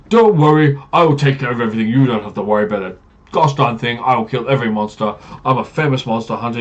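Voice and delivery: oversell every feat like a showman hero; boastful paladin. Acted. Paladin bragging about his kills to the party, loud and pompous.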